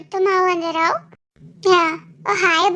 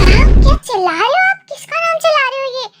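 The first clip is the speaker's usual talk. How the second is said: loud and higher, calling across the room; loud teasing call; 5 semitones higher, 5 dB louder, faster than usual. Acted. Younger brother catching Jungkook calling a name, loud and high. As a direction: burst in loud, needling him about the shouting.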